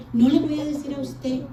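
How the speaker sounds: high, mock-petulant refusal; bratty. Daughter-in-law refusing her father-in-law, retold brattiness. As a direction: play the spoiled girl refusing. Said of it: "yo era malcriada".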